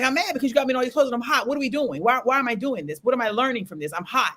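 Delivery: retold exasperated protest, starting high and quick; mad complaint. Client questioning the counselor's clothes exercise, mildly mad. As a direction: complain crossly, easing down by the end. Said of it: "You know, I'm mad".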